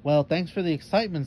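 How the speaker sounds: light, quick mock thanks; sarcastic. Jania teasing Melissa after the chase led nowhere, quick sarcasm. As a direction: tease the letdown, dry and brisk. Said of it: "said Jania sarcastic".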